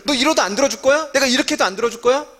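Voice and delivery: put-on childish threatening tantrum. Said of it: "마치 어린아이가 부모를 때를 쓰면서 협박하듯이".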